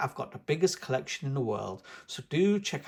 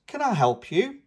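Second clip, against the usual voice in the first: Mister Fox; 8 semitones higher, 6 dB louder than usual. A narrator's reading. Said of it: "beams Mister Fox".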